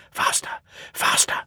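low-key urgent grumble; grumbling. A narrator's reading. Loaded trucks urge each other down the incline, grumbling. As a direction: grumble it in short bursts. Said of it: "they grumbled".

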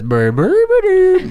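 very high, slow creature babble; Grimace voice. Acted. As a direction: coo it like a loving cartoon monster. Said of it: "And he says".

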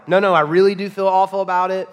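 a touch of overdone pleading; mock earnest apology. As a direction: pretend to swear you mean it. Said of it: "we all swear in the moment".

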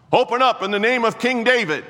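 loud, high call at the door; calling out loudly. Acted. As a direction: bang out a royal summons.

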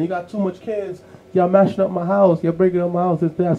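put-on high, exasperated landlord griping about the kids; complaining landlord. Landlord griping to the family about noisy kids, exasperated. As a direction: whine it like a fed-up landlord. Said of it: "the landlord would complain".

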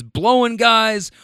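grump continuing. Retold or imitated. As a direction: draw it out slowly, pitch lifted. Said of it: "And Grump continues".

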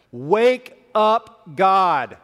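full acted yell, high and loud; yelling at God. Preacher voicing David's desperate prayer in church, acted yell. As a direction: holler upward as if to rouse someone asleep. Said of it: "for me to yell like that in church".

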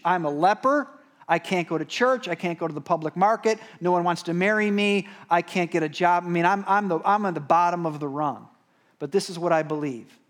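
lightly voiced leper begging the Master; pleading leper. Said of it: "He said".

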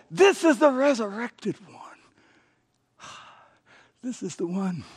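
whispered in reverent awe; a breathless, whispered proclamation; awed whisper. Real, not acted. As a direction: drop to a hush of wonder. Awed hush in sermon climax.

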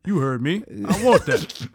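put-on older Black man voice. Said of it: "black guy voice".

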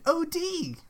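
O D said as two letters, not Odie; O D spelled. Shown as a demonstration. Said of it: "Like, overdose, just to be clear".

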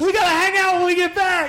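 high, overeager buddy voice; eager bro. Retold or imitated. Dorm neighbor inviting him to hang out, high and eager. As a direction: play the new best friend. Acted bro voice after fight.

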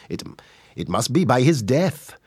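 sing-song Welsh delivery; Welsh accent. Shown as a demonstration. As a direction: give it a Welsh valleys lilt. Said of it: "if you were doing it in Welsh".

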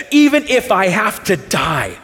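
a touch of a fervent loyal disciple; Peter's bold vow. Retold or imitated. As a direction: swear it boldly, like Peter. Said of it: "He's the one who said".

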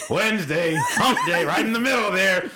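high, hammed-up office cheer; mock cheery coworker. Coworker greeting him midweek, hammed-up cheer. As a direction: sing out the midweek small talk, laughing. Mimicking chirpy small-talking coworker.

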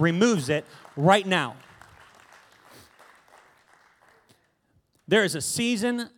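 fervent preacher building to prayer; preaching. Acted. Preacher praying over the congregation, fervent preaching. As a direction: preach it, pray the cap away.

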